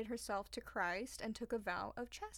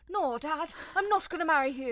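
loud, high mock protest; daughter's refusal; 5 semitones higher, 9 dB louder than usual. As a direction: shout it at Dad in protest.

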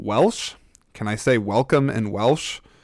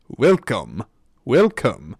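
attempted Dutch accent; much slower than usual. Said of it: "Dutch is".

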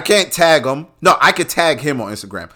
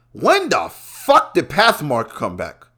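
disbelief; 2 semitones higher, slower than usual. Real, not acted. Disbelief at store's return.

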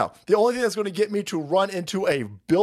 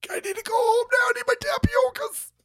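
very high, mock-tearful old man wail; whining old man. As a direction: whine like a fussy old man wanting home. Acting Biden whining to go home.

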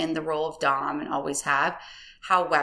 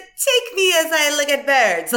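higher and louder, laughing; laughing mock quote; 8 semitones higher, 6 dB louder than usual. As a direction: squeal it through laughter.

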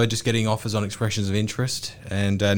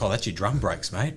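dad quote; 5 semitones lower, 6 dB quieter than usual. Retold or imitated. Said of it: "her dad was like".

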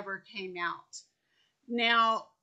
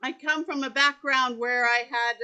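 louder, amplified speaking voice; projected voice; 7 dB louder than usual. Real, not acted. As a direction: speak up to be heard on a poor microphone. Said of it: "speak loudly for us".

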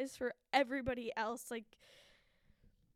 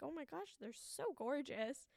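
awed gush; 3 semitones higher, 3 dB quieter than usual. Retold or imitated. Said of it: "I'm like".

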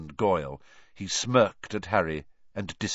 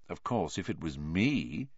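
quiet; 3 semitones lower, 6 dB quieter than usual. Acted. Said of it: "he said quietly".

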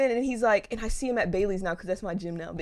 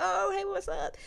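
bright greeting; 11 semitones higher, 5 dB quieter, slower than usual. Retold or imitated. Retold casual greeting.

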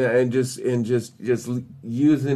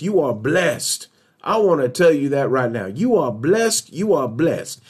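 preached blessing; slower than usual. Real, not acted. Preacher blessing each listener by name, fervent proclamation.

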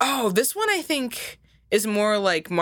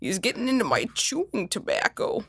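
Max voice; 5 semitones lower than usual. Retold or imitated. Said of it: "Imagining Max being like, talking to Pete".

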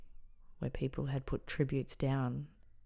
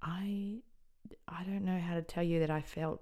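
hushed grief; 3 semitones higher than usual. Real, not acted. Recalling the death news.

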